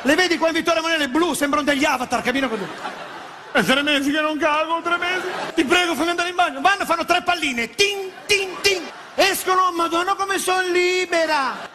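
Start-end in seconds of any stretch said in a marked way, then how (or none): 3.5-11.7 put-on high, slow girly voice; lightly higher mock woman; mock women's voice. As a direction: play the delicate lady. Women imitated in bathroom.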